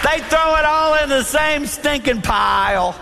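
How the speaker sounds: stinking pile with a laugh; laughing punchline. Acted. Preacher repeating his landfill joke to the crowd, laughing.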